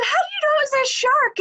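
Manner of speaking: high, mocking question; teasing disbelief. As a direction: poke fun at him, sceptical. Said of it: "I said".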